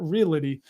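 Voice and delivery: "realty" as three syllables, ree-li-tee; mispronounced realty. Retold or imitated. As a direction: slip an extra vowel into "realty". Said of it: "It's not realty".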